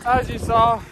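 a bit winded, catching breath. Real, not acted. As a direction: talk while still winded. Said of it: "I'm a little winded now".

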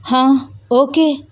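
hurried reply. A narrator's reading. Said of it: "వడివడిగా వెళ్ళి".

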